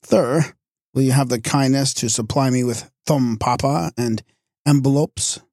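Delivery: affected lisping dandy voice; lisping English fop. Retold or imitated. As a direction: put on a snooty lisp like a fop. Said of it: "he thought it was Hinglish, you know, to lisp".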